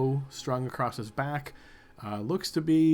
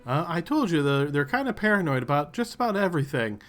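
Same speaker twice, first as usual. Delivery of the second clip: Ben's voice; 4 semitones higher, 4 dB louder than usual. Acted. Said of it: "and Ben says".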